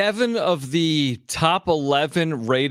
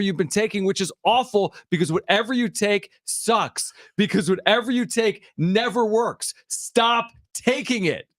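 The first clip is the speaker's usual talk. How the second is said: loud sharp voice; 4 semitones higher than usual. Real, not acted. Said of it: "why are you yelling at me".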